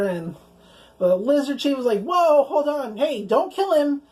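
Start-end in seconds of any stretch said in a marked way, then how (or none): 2.0-4.0 retold plea to stop, pitched higher; lightly acted higher-pitched call to hold off; urgent intervention. Lizard chief to his guard, mock urgent intervention.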